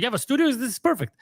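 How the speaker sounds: high, delighted "you have a studio?"; lightly voiced thrilled friend; excited disbelief. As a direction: play the friend who can't believe his luck. Mike thrilled about the studio.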